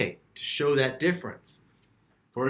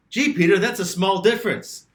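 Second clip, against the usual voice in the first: skeptical student; 5 semitones higher, 4 dB louder than usual. Retold or imitated. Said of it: "And you're saying".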